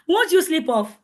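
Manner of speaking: amused, breaking into a laugh. Real, not acted. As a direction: question that tips into laughter. Laughs at own slow demo.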